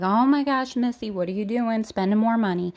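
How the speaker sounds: mildly alarmed viewer, imitated; playful mock dismay; mock freak-out. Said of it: "you're probably freaking out".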